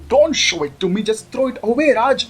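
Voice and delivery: high frightened plea; scared squeal; screaming. Acted. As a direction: cry out with eyes shut. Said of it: "चिल्लाती है".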